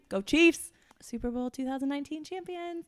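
root for the Chiefs; cheer. Real, not acted. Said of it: "cheering for team".

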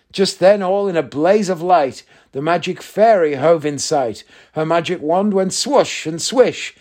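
lively rhythmic verse narration; poem reading. A narrator's reading. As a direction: read the comic poem with theatrical relish. Reads a comic poem aloud.

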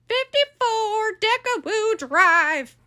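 very slow and careful; slow spelled-out address. Acted. Caller giving the officer her address, very slow. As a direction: give the address slowly so it's written down.

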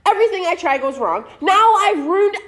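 overwrought melodramatic rant; dramatic. Acted. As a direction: play the tragic martyr. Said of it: "let me be dramatic".

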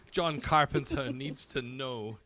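slow, laughing mock resolve; mock determination. Gig-goers vowing to fix the director's pronunciation, mock-determined. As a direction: imitate a fan on a slow, solemn mission. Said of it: "Different people were like".

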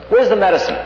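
high, loud impatient bark; impatient demand. Retold or imitated. Guru impatiently demands the medicine, high and loud. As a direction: demand it sharply, out of patience. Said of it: "he gets very impatient".

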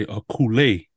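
coulée said the Cajun way, ending "lay"; Swamp's pronunciation. Retold or imitated. Host copying Swamp's word for the cove, Cajun pronunciation. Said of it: "like Swamp likes to say".

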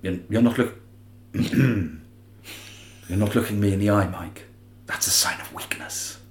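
low-key, hushed menace with slow, deliberate words; Oliver Reed. Acted. Podcaster showing off his impersonation on request, hushed slow menace. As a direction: speak slowly and quietly, fading almost to a whisper. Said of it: "trying to do my Oliver Reed impersonation".

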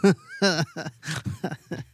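short amused laugh; real laugh. Real, not acted. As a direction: laugh at the absurd memory. Storyteller laughs at memory.

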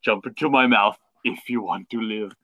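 Terminator line. Retold or imitated. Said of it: "a subtle Terminator reference".

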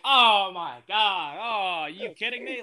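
hammed-up dad aghast nobody knows; mock disbelief. Dad reacting to teens not knowing the band, mock shocked. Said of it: "He's like".

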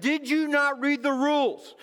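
high-pitched, incredulous mock complaint; acted exasperation. Acts exasperation at slow traveler.

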